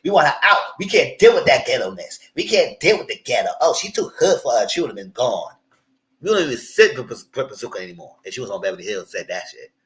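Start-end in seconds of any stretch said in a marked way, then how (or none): 0.0-7.8 loud, higher, mocking chant of we want her out; loud mock protest; mock producer demand. Loud, mocking what producers would say. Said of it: "I said".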